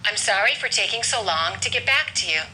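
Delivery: "back" stressed, "to" and "you" unstressed. Shown as a demonstration. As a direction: make "back" the key word, reduce "to you". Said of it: "we're gonna stress the word back".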